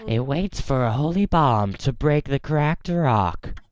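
slow, creepy robotic seer; Madame Fawn voice. Acted. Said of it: "excited about my Madame Fawn voice".

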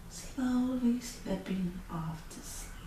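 soft, slow drift into sleep; sleepy hush. A narrator's reading. Storyteller lulling the child listener, soft and slow. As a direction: let the words drift off. Narrating Goldilocks falling asleep.

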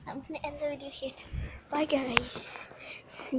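whispered goodbye; whispering. Real, not acted. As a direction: softly whisper the sign-off. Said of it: "Be really quiet".

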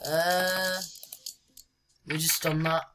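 ordinary talk

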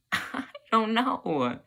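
high, slow, drawn-out helplessness; helpless exasperation. Acted. Student blamed either way, helpless and drawn-out.

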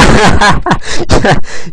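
short high burst of laughter. Real, not acted. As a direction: laugh out loud. Laughs at own remark.

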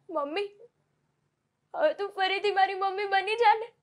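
put-on a sick girl comforting her mother, fragile and brave; dying daughter. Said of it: "આ mono act perform કરવાનો chance આપ્યો".

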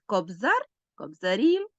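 "кобзар" on ЗАР, then "кобзарі" on the final І; stress moves to the ending. Shown as a demonstration. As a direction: shift the stress to the last vowel of "кобзарі". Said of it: "наголос переходить на закінчення".

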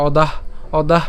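"অদাহ" as o-dah with final h; "অদাহ" stopped after the হ; pronunciation demo. Shown as a demonstration. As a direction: teach "অদাহ", breathing out the closing h. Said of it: "দ আকার হ পর্যন্ত নিচ্ছি".

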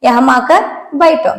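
"യഹാ മാക്കർ ബൈഠോ" said slowly, each word apart; slow model repeat. Shown as a demonstration. Teacher repeating a Hindi phrase for students, slowly. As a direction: spell it out slowly for learners. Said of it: "എന്നാ പറഞ്ഞത്".

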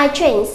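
I trains read as a model; teacher's English demo; English example. Shown as a demonstration. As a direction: say it like a sample sentence. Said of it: "Cô nói là".

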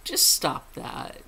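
whispered scolding just stop that; hushed stop. Real, not acted. Viewer told off in a whisper, hushed. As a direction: hiss it at them: just stop that.

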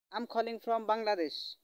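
slow, careful English answer; slow teaching demo. Shown as a demonstration. Teacher modelling the answer for students, slowly. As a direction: give each word its own time. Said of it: "এটার answer আপনি simply ভাবে দিবেন".

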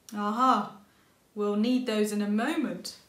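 loud, bright aha; cheerful cry. A narrator's reading. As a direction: grandpa with a plan. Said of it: "cried Big Rabbit".

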